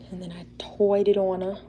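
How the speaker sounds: lightly put-on British accent. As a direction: slip into a playful British accent. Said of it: "doing the British accent".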